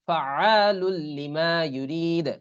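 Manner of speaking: ফাআলুল লিমা with a clean double l, no nasal hum; very slow recited ফাআলুল লিমা ইউরিদ; merged without ghunnah. Shown as a demonstration. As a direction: draw ইউরিদ out long. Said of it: "এভাবে আর কি".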